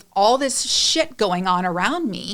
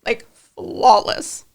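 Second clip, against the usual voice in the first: gushing praise; 4 semitones higher than usual. Retold or imitated. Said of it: "I'm like".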